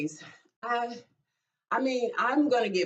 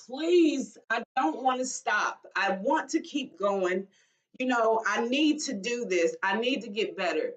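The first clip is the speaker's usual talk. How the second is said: pleading prayer. Retold or imitated. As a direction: plead mildly, as if retelling a tearful prayer. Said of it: "walking and crying and praying to God".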